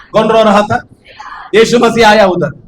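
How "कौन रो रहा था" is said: asking again, shouted. Shown as a demonstration. Preacher repeats his question to the crowd, now shouting. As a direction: throw the question out at full voice.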